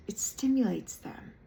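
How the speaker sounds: hushed aside; whisper. Real, not acted. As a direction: whisper it knowingly.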